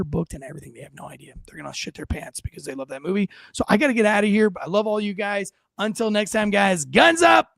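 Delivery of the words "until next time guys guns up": slow, drawn-out shouted sign-off; rally the listeners as you close the show; hearty podcast goodbye. Real, not acted.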